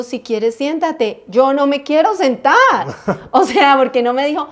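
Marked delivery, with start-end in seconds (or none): 0.0-1.2 drawn-out, slow "Si quieres siéntate"; slow mock quote. 1.3-2.5 firm no, hitting "quiero"; louder "no me quiero sentar"; defiant refusal. Retold or imitated. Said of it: "defiant retelling of refusal".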